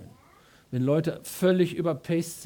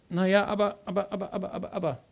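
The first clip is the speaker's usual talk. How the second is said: higher, fading string of hesitant buts; mock hesitation; 3 semitones higher, faster than usual. Preacher mimicking Moses stalling God, buts fading out. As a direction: stall with excuse after excuse. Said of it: "Mose sagt".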